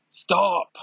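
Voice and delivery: high, sudden cry to halt; acted command. Xavier stops everyone under threat, high desperate command.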